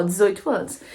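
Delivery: ordinary delivery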